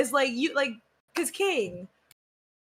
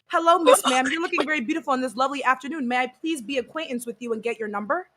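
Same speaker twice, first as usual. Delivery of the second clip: formal gentleman suitor; faster than usual. Acted. Acting an overly formal pickup approach.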